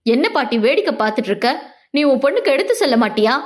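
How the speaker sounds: rapid irritated jab at grandma, teeth clenched; quick mild grumble at grandma; fast, through gritted teeth. Acted. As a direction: rattle it off quickly, barely holding back annoyance. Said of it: "பல்லை கடித்தான்".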